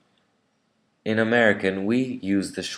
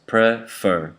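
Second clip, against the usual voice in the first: "prefer" broken into two syllables; split into syllables; 2 semitones higher, 3 dB louder than usual. Shown as a demonstration. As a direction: say "prefer" as pre, then fer. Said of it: "there are two syllables".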